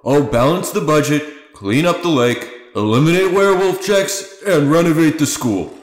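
campaign speech. Acted. Ignatius wrapping up his campaign speech to town, rousing. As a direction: promise it to the crowd like a politician. Mayor candidate ends speech.

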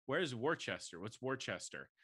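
"Worcester" said as spelled, WOR-chester; naive mispronunciation. Retold or imitated. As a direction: read "Worcester" out phonetically, puzzled newcomer. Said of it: "but I kept going".

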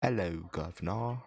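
slow cockney Hello, governor; hammed-up British greeting; British accent.

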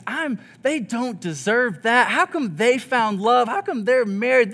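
1 indignant grumble. Retold or imitated. Grumbling over others' love.

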